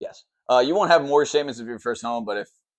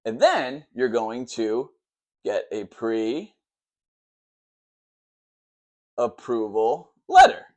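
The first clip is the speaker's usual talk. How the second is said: deliberately slowed down; slower than usual. Shown as a demonstration. Lecturer slowing down for the wife who asked, very slow. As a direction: spell it out slowly for the viewers. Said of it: "try to reel it back in and talk a little slower".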